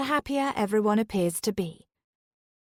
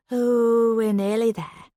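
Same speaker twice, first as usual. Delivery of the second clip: louder, bright announcement; announcing; 5 dB louder, slower than usual. Acted. Dawn telling the family they've arrived, announcing. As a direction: call it out to everyone. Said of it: "Dawn announces".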